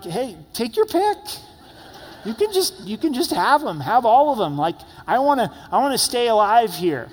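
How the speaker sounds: high, loud, hammed-up panic; mock panicked plea. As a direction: frantically hand the sheep over to a lion. Pastor facing lion, gives up sheep.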